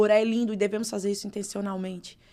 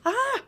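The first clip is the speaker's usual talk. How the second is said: sudden high yelp of fright; startled yell; 14 semitones higher, 3 dB louder than usual. Retold or imitated. Retelling her ex-husband's startled yelp, high and sudden. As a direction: yelp like a man caught off guard. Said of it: "Ele gritou, fez".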